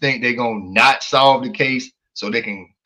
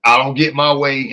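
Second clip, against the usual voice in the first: bitter caller; 6 dB louder than usual. Retold or imitated. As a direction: act out a resentful tattletale. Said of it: "Sound bitter".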